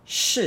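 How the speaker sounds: "sh" as a short falling syllable; fourth tone. Shown as a demonstration. Teacher giving the word's meaning, fourth tone. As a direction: say "sh" crisply with falling tone. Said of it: "angry fourth tone".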